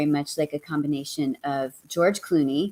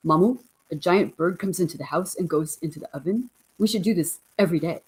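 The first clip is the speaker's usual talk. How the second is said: lightly voiced elegant old dog, slightly quick; a hint of a gentle dog's voice reading his thoughts; Woodrow's voice. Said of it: "here's what he sounded like".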